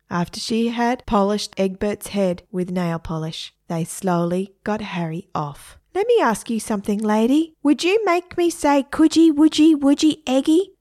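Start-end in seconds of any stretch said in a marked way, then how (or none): 5.9-10.7 high parrot voice, growing louder; questioning parrot. Acted. Parrot questioning girl, rising squawky voice. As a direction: start quick, climb into a squawky chant.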